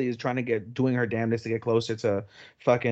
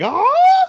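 very high loud scream; shocked scream; 11 dB louder than usual. Retold or imitated. Saki screaming as the two run out. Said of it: "And Saki is like".

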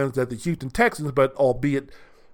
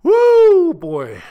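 loud, high woo; gloating whoop; 13 semitones higher, 9 dB louder than usual. Real, not acted. Whooping at Harden's misfortune, loud and high. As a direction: whoop in delight.

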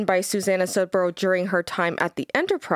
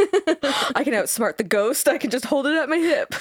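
laughing mock boast; 6 semitones higher than usual. Mocking the ghost hunter.

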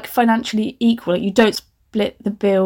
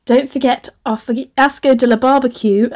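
reading through laughter; can't keep a straight face; laughing; 3 semitones higher than usual. Real, not acted. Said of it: "still laughing about fiasco de la barbecue".

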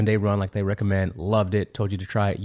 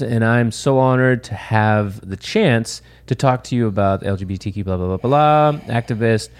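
robot voice; 2 semitones higher than usual. Shown as a demonstration. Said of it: "That's why I was kinda reading it like a robot".

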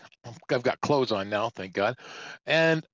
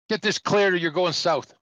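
mock barked threat; 5 semitones higher, 4 dB louder than usual. Acted officer threatening the trucker.

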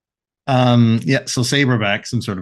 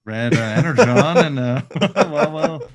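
Jeff Goldblum; 3 semitones higher, 3 dB louder than usual. Acted. Rambler asking for red Energon, giddy Jeff Goldblum impression. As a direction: stammer giddily and restart often. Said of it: "he's, uh, Jeff Goldblum".

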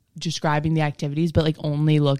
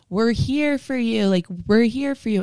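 mock cheering; 7 semitones higher than usual. Mimicking counselors' innuendo.

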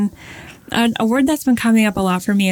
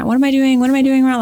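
frustrated self-questioning; 5 semitones higher, faster than usual. Retold or imitated. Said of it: "I'm getting, like, really, like, wrapped up".

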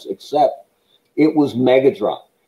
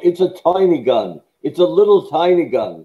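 higher-pitched half-hearted mock yell; suggested mock yell; 5 semitones higher than usual. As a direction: pretend to yell it, without real volume. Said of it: "you should have yelled".

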